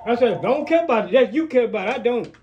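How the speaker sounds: loud heated shout; angry shouting. Real, not acted. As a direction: yell it in anger. Heated family quarrel.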